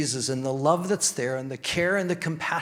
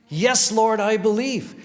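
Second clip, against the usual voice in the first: higher and louder proclamation of faith; preacher declaring the believer's confession, loud and high; bold declaration; 7 semitones higher, 7 dB louder than usual. Shown as a demonstration.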